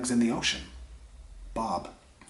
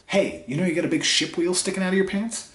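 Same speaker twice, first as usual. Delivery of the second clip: bartender voice; 8 semitones higher than usual. Acted. Bartender quoted in joke.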